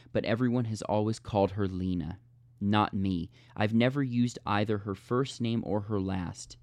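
measured audiobook-style reading; narrating from the page in neat phrases; story narration. A narrator's reading. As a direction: read the novel passage aloud with deliberate emphasis. Reads a passage from the novel aloud.

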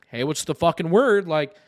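loud, fed-up customer on a call; impatient demand. Retold or imitated. Customer calling the store back about his TV, impatient.

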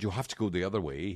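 quick, lightly put-on Aussie; brisk imitated Aussie instruction; Australian accent. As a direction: say it as an Australian supervisor. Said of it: "Is that your Australian accent?".

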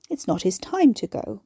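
calm, matter-of-fact; level and reasonable. Acted.

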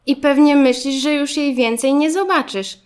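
put-on understanding young classmate. A narrator's reading. Garbusek guessing Zygzak's fear, understanding. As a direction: show you know the feeling.

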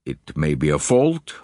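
deep, solemn lord; Lord Alloway. Acted. Lord swearing to the detective, deep solemn voice. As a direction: vow it low and gravely.

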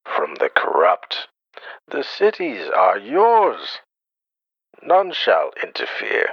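villain rallying speech. Acted. Bane rallies podcast listeners to revolt, building grand speech. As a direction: rouse the city like a tyrant.

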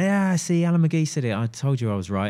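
mock vindicated. People reacting to the Britpop claim, mock vindicated. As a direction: lightly mimic people claiming they were right. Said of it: "loads of people going".

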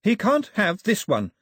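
high, loud slow scream. A narrator's reading. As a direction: shriek your refusal. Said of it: "Daphne screamed".

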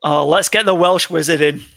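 loud, hammed-up Welsh accent; best Welsh accent. Hyping a pick for the Welsh wizard, Welsh accent. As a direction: boom it out in a put-on Welsh accent. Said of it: "That's my best Welsh accent".

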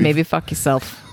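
put-on line in a Boston accent; tough-guy Boston accent. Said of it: "Nice Boston accent".

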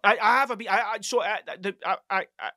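halting, stuck on I; real stammer, repeating "I"; stuttering. Real, not acted. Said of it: "see the stuttering".

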